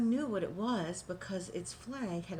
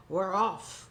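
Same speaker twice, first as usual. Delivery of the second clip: rousing louder cheer; crew shout; 5 dB louder than usual. Acted. Crew shouting as they set sail. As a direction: shout it as the ship sets sail. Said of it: "we all shouted".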